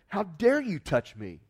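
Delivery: hammed-up angry scolding; indignant rebuke. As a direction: pretend Jesus berating the woman, loud and indignant. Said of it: "Jesus looked at her and he said".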